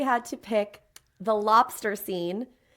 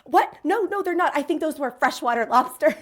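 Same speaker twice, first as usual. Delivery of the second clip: higher, quick-fire denial in mock alarm; mock panic; 4 semitones higher, 5 dB louder than usual. Elsie caught out about the lobsters, mock panicked. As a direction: play at flustered backpedalling. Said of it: "Elsie starts to panic".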